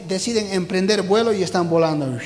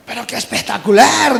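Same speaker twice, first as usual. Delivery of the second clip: louder, awed praise; admiring cry; 4 semitones higher, 6 dB louder than usual. Acted. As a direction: call out in wonder. Animals admire flying frog. (exclamación de asombro)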